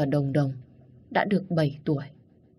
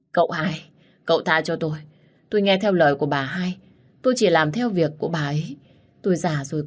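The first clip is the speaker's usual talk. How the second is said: tearful begging; faster than usual. Acted. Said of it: "gần như khóc không ra tiếng".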